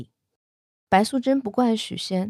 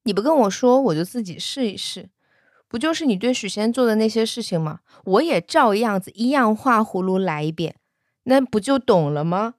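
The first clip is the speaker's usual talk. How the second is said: angry; 3 semitones higher than usual. Retold or imitated. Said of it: "他就更生气了".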